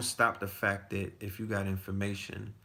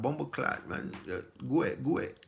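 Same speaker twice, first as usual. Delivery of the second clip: fake Jamaican accent; 4 semitones higher than usual. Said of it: "I got my fake Jamaican accent".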